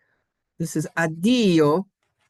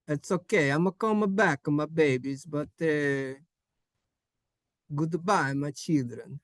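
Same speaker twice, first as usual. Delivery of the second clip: reassuring Italian papa; Italian accent. Acted. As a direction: play an Italian papa leaving the kids. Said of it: "don't say it with that accent".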